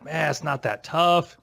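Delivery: light imitation of a French accent, slow and easy; slow, understated French accent, relaxed. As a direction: mildly mimic a Frenchman shrugging it off. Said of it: "with his French accent and it sounded".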